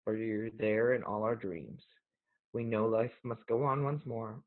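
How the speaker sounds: steady, measured poem recital; reading a mother's poem to the audience. Acted. Reads mom's memorial poem.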